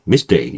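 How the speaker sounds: "mistake" as mis-DAY, k barely there; English mistake. Shown as a demonstration. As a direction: say "mistake" in one go with tense t. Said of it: "요렇게요".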